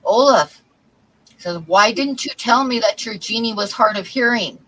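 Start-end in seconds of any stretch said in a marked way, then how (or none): 0.0-0.6 louder, acted annoyance; pissed off. Fisherman confronts his friend about the genie, pissed off. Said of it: "he's kinda looking pissed off". 1.7-4.6 higher, mildly annoyed complaint; pissed off. Acted. Fisherman confronts his friend about the genie, pissed off. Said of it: "he's kinda looking pissed off".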